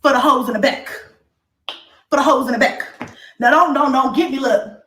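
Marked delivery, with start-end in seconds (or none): 0.0-2.8 punchy preacher-style callout; emphatic, measured sermon delivery; preaching. Real, not acted. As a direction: project it to the back row. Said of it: "I was preaching".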